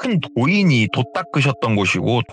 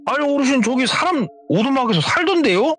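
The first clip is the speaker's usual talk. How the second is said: much higher-pitched retold objection; incredulous protest. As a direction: question the elder in high-pitched disbelief. Retold protest to the village elder.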